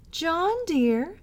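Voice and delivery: sweetly calling through the locked door to her husband John, in her gentlest voice. A narrator's reading. Wife soothing husband through locked door, gentlest voice. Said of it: "said I in the gentlest voice".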